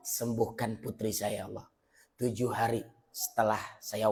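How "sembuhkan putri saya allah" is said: retold prayer. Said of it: "Lalu saya berdoa".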